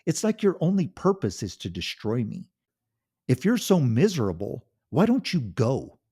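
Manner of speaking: loud, high furious yelling; a husband exploding at his cruel wife; angry shout. Acted. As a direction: finally fight back, full volume. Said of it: "He shouted".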